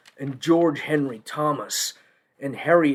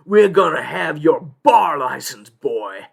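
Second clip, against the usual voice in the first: mock snarl; 5 dB louder than usual. Avondale's lawyers threaten the young union lawyer, mock snarling. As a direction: play a menacing opposing lawyer. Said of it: "their lawyers are snarling at me".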